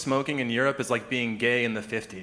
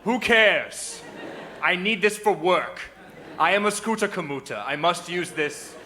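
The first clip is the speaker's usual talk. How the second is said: higher, whiny mock commuter; higher, indignant scooter commuter parody; 6 semitones higher, 3 dB louder than usual. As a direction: ham up a self-righteous scooter guy.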